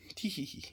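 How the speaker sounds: soft, whispery tittering; quiet little giggle at your own slip; sheepish giggle. Real, not acted. Giggles at own camera mistake.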